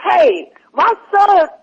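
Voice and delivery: slow, drawn-out mock-solemn "hey, my son"; lightly voiced earnest man, slowed right down; his solemn tone. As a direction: stretch it out like a grave stranger lecturing you. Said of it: "if y'all could have heard his tone".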